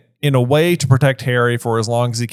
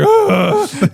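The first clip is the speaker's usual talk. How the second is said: creepy groan; 3 dB louder than usual. Retold or imitated. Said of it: "He's like".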